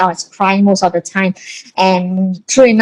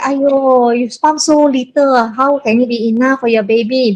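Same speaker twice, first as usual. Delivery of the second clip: retold dismay; 3 semitones higher than usual. Mother faulting how little her daughter pumped, retold dismay. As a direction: imitate a mother's lament, lifting the opening.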